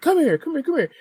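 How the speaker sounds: high, insistent mock summons; imitated impatient parent. Imitating his friend calling his kid, mock insistent. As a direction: call the kid over, repeating it urgently.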